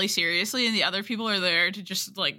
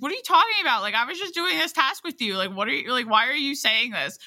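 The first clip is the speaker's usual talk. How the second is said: indignant; 5 semitones higher than usual. Retold or imitated. Retold protest against accusation.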